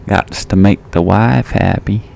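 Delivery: lightly put-on Southern accent, joking with the boys; playful touch of Southern twang; little southern twang. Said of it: "Had a little southern twang in there".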